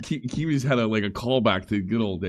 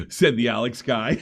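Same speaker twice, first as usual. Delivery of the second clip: laughing; 8 semitones higher, 6 dB louder than usual. Real, not acted. Laughing while telling the story.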